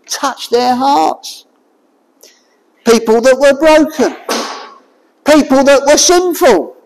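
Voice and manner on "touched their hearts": slow and soft. Acted. Sermon, tender climax.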